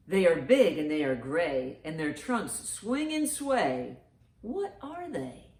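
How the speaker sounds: slow sing-song riddle read. Acted. Grandma reading a riddle to the boys and girls. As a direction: read it like a game for kids.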